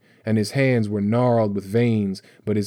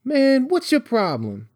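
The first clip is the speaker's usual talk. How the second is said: put-on very high-pitched, exasperated boy's yell. A narrator's reading. Boy snapping back at Bones, yelling. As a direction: challenge him at the top of the range. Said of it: "Tyree yelled".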